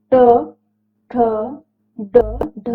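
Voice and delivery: "ट, ठ, ड, ढ" slowly, each after a pause; retroflex consonants. Shown as a demonstration. Teacher demonstrating the retroflex row slowly, one at a time. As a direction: curl the tongue back for "ट, ठ, ड, ढ". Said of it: "ये बोल के देखेंगे समझ में आएगा".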